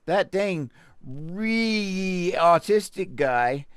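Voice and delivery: slow, drawled mock-redneck jab; mock bigot. Mocking the article's attitude, slow mock-redneck jab. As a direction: sneer like a small-town bigot. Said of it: "Do you not see surprise in that?".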